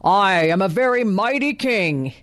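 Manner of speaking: proud lion-king voice; a lightly voiced boastful lion king; lion roaring. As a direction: puff up like a vain lion. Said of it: "he roared".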